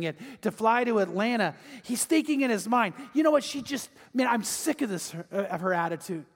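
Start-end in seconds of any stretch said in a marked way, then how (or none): 3.1-6.2 inner rant. Acted. Husband fuming on the plane.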